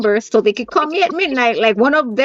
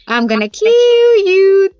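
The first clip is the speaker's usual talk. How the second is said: drawn-out, raised-pitch mock threat; movie menace imitation; 7 semitones higher, 5 dB louder, much slower than usual. Three-year-old copying Madagascar at the little ones, drawn-out mock menace. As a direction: stretch out a playful cartoon threat. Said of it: "you know how they go".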